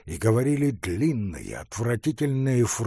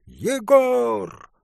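louder, higher call through the door; 11 semitones higher, 7 dB louder than usual. A narrator's reading. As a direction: shout the name again. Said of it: "крикнул он в дверь". (громкий крик в дверь)

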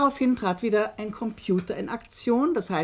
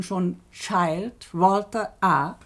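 slow emphasis; much slower than usual. Shown as a demonstration. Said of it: "Ich muss Ihre besondere Aufmerksamkeit".

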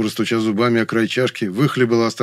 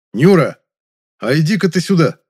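loud call, higher; 7 semitones higher, 7 dB louder than usual. Acted. Young man calls the maid from the kitchen, loudly. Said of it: "позвал громко".

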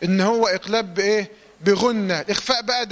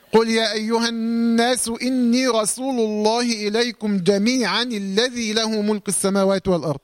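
measured, sustained tajweed chanting; Quran recitation. Shown as a demonstration. Tajweed teacher reciting a verse to students, Quran recitation. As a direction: recite with long, even held vowels.

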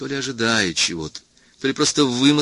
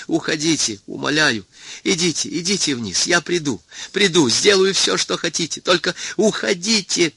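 жалобная мольба, заметно выше обычного; умоляет уйти, голос срывается вверх; плаксивая мольба; 8 semitones higher than usual. A narrator's reading. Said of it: "простонал он странным плаксивым голосом". (Сарториус плаксиво умоляет Кельвина уйти)

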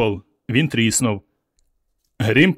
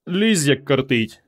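lazy; slower than usual. Acted. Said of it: "лінива Варка".

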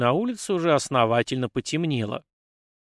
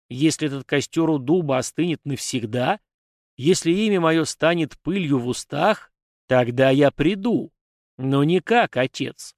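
echoing ethereal energy being. Acted. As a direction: demand it like an ancient offended deity. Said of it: "раздался гулкий голос".

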